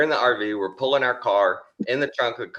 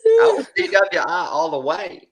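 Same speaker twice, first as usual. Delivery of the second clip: laughing; 7 dB louder than usual. Real, not acted. Laughing with friends at story.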